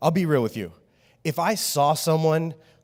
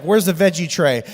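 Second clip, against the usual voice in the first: mock grumpy demand; 6 dB louder than usual. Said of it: "he's all mad".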